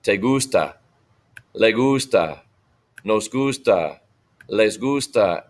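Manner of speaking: measured drill with pauses between forms; model for repetition. Shown as a demonstration. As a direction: say each form for the class to echo. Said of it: "Repitan, me gusta".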